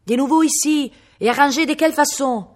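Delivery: high, loud outraged exclamation; scandalised aunts. A narrator's reading. Aunts at the bloodied boy with dead cat, scandalised. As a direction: shriek in horrified French disapproval.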